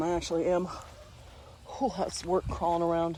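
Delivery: genuinely out of breath, winded. After crawling around in there, the speaker is actually out of breath. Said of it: "if I sound out of breath this time".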